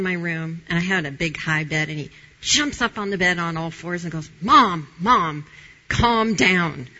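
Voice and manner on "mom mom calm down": imitating her son. Son calming his upset mother.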